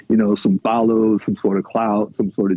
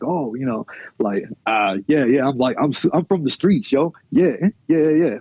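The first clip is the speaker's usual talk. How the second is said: mock street poser. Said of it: "try to justify it with".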